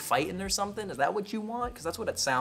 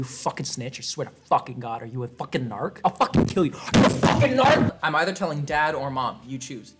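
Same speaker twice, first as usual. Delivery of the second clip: angry shout; 3 semitones lower, 6 dB louder than usual. Pretend. Mock tough-guy rant.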